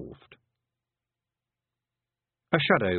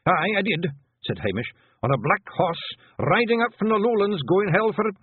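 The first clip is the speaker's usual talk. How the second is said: high, louder panicky pixie voice; scared Hamish; 10 semitones higher, 4 dB louder than usual. A narrator's reading. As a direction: babble apologies in fright. Hamish reporting.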